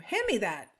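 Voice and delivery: firm, adamant command with a falling end. Shown as a demonstration. Teacher demonstrating an adamant order to a kitchen helper, adamant. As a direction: say it as an insistent order. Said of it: "saying it really adamantly".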